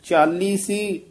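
ਚਾਲੀ ਸੀ with a pressed l and a small stop after; brief break. Shown as a demonstration. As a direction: say ਚਾਲੀ ਸੀ firmly, then halt briefly. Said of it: "ਇੱਥੇ ਯਮਕ ਲਾ ਦੇਣੀ ਹੈ".

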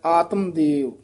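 ਆਤਮ with no final ਆ, then ਦੇਵ; ਆਤਮ ਦੇਵ, ਆਤਮਾ ਨਹੀਂ; correct reading ਆਤਮ. Shown as a demonstration. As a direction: say ਆਤਮ short, not ਆਤਮਾ. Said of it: "ਆਤਮ ਦੇਵ ਸੰਬੰਧਕ ਪਾਠ ਹੈ".

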